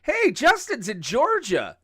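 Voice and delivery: mock call-out. Calling out to absent Justin.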